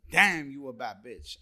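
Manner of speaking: impressed, loud praise to a friend; admiring compliment. Retold or imitated. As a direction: hype her up with admiration.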